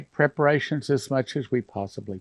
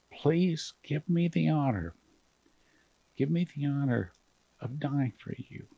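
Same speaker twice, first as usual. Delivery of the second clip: hushed, tearful plea to the Lord; quiet emotional prayer, voice held back; 4 dB quieter than usual. Real, not acted. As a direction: pray softly, close to tears. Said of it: "I'm getting emotional here".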